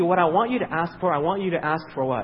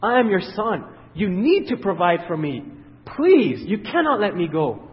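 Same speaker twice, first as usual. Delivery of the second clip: mock pleading; 3 semitones higher, 5 dB louder than usual. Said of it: "start talking about your works".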